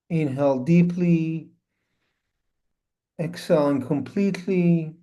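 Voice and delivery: unhurried instructions with long pauses; spacious, measured meditation guidance; guided meditation. Acted. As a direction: guide listeners gently into stillness, phrase by phrase.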